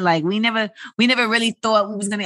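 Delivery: put-on New York accent. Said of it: "I don't know why I'm talking like a New Yorker".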